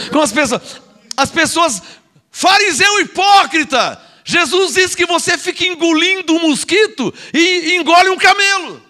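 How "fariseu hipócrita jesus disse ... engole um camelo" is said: higher-pitched, scolding outburst; indignant rebuke. Real, not acted. Preacher rebuking nitpicking hypocrites, indignant.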